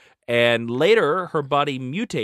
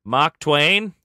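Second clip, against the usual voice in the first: put-on British accent, pitched up for the question; mock British accent; 3 semitones higher, 4 dB louder than usual. Joking about a name to co-host, mock British accent. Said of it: "Why is he British?".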